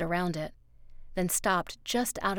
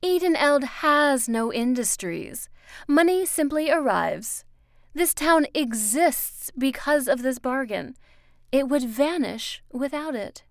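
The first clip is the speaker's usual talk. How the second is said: raised woman's voice pressing a point; Miss Foster, insistent; 7 semitones higher, 8 dB louder than usual. Acted. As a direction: spell out the stakes forcefully.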